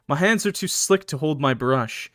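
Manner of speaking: measured, moody first-person narration; story narration. A narrator's reading. Streamer reading a horror story to chat, measured narration. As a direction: read it as a grim tale.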